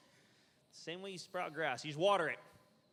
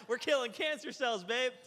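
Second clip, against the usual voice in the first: higher, louder, cheery: killing cancer cells, babe; a hammed-up triumphant cheer; excited boast; 6 semitones higher, 6 dB louder than usual. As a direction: proudly announce it to your wife at dinner. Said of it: "I said".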